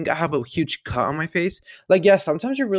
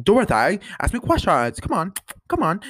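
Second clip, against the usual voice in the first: upset Millie impression; 6 semitones higher than usual. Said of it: "getting so upset".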